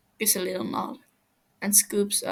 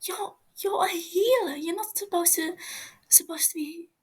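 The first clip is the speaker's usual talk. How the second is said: higher, trembling whispered plea; frightened whisper; 10 semitones higher than usual. Acted. Captive Fofo pleads with Tommy, whispering in fear.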